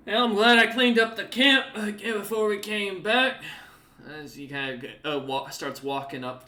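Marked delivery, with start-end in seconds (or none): 0.1-3.4 higher, louder cheerful NPC voice; Scartsmander, relieved. Acted. Scartsmander telling the party he's glad he cleaned up camp. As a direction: sound pleased and a bit smug. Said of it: "He nods and goes".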